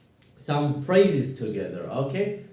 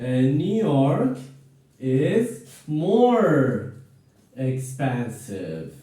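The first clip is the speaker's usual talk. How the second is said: slow, careful model sentence; 2 semitones lower, much slower than usual. Shown as a demonstration. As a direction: spell it out slowly for learners. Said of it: "let me model some examples here".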